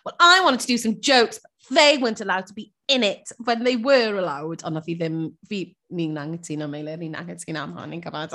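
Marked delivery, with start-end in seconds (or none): 0.0-4.6 quoting Crystal. Retold or imitated. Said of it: "sort of gweud".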